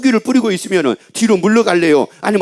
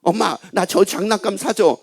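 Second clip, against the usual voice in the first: slow, mildly acted child asking mom; child begging. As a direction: lightly play a kid pestering for a toy, drawn out. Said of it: "또 어떤 애들은 뭐라 그러냐". (장난감 조르는 아이 흉내)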